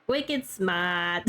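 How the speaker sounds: put-on low, playful Boston accent; lightly put-on Boston accent. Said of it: "I do like the Boston accent".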